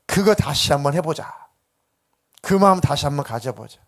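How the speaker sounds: earnest, emphatic affirmation. Acted. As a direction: press each phrase home to reassure Peter. 예수가 베드로의 진심을 인정. (진심을 알아주며 힘주어 다독이듯)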